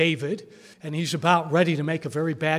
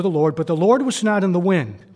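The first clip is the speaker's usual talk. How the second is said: big, loud preaching boom; thunderous reading of the wind; dramatic boom; 7 dB louder than usual. Acted. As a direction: proclaim it like the roaring wind.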